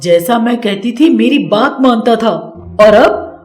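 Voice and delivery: mother-in-law threatening her daughter-in-law while hitting her, furious. Acted. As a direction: spit out the threat in a jealous fury. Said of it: "Radha को मारते हुए कहती है".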